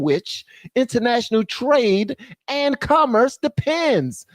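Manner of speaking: a hint of Trump feeding lines to a typist; mock Trump dictating. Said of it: "while she types all this".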